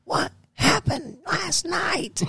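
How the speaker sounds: high, slow mock wife voice. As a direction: ham up his wife's exasperated wail. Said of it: "And she's like".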